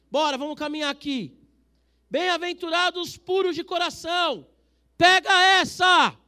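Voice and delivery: high, loud, slow proclamation; shouting. Real, not acted. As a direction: shout it so no one drifts. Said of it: "Tô gritando porque vocês estão começando". (gritando o versículo para a igreja)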